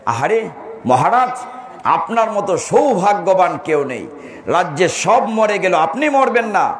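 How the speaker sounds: a sweet, coaxing astrologer; lightly voiced fortune-teller flattering the king. Second astrologer flatters the king with a coaxing voice. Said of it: "তিনি গণে টনে বললেন".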